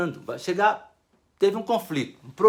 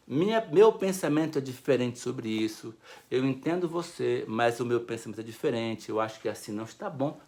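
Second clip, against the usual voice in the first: calm respectful reply; 7 semitones lower than usual. Shown as a demonstration. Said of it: "Ou diga assim".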